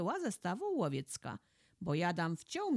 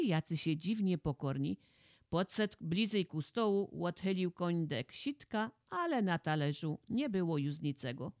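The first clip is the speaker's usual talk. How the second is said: ordinary delivery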